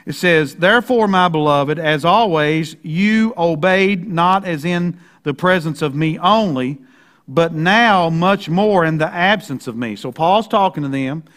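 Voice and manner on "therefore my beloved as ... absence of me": slow, word-by-word rendering; literal Greek reading. Shown as a demonstration. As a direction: read it deliberately as the Greek orders it. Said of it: "read it the way the Greek says it".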